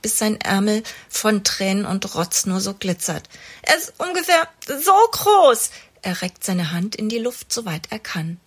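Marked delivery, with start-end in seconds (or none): 3.6-5.7 kleiner Junge. A narrator's reading.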